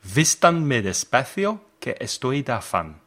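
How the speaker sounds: Spanish read with an American accent; English speaker's Spanish. Real, not acted. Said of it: "I'm sorry about my Spanish pronunciation".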